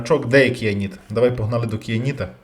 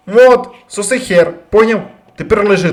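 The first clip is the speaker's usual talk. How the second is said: gloating taunt; 8 semitones higher, 8 dB louder than usual. Real, not acted. Player taunting the creature he just killed, loud gloating. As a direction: lean into each word to rub the win in.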